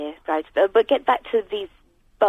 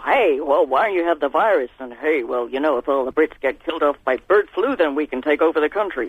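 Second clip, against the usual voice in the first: lower-pitched, badly faked American accent; appalling American accent; 6 semitones lower than usual. Caller imagining Americans scheming over bird flu, appalling American accent. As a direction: put on a bad mock-American voice. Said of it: "that was an appalling American accent".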